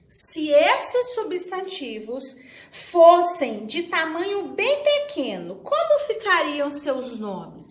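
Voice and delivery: slow, emphatic question reading; slow read-aloud. Real, not acted. Teacher reading the exercise to pupils at home, slow read-aloud.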